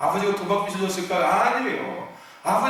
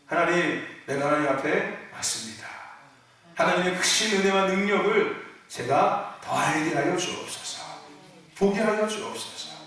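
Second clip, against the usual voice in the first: polite prayer; 3 semitones lower than usual. Retold or imitated. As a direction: pray with gentle courtesy. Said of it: "아주 매너 있게".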